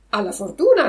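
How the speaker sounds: cat echoing. Acted. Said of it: "ripeté il gatto".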